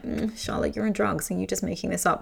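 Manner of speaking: lightly mock a doubting friend; mocking skeptic.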